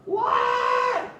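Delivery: high, loud shocked cry; loud high startled what; startled shout. Acted. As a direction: yelp it in sudden shock. Burglar startled by trap.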